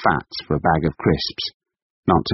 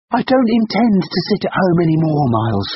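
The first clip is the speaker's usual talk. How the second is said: defiant declaration; 12 semitones higher, 3 dB louder than usual. Acted. Wife defiant.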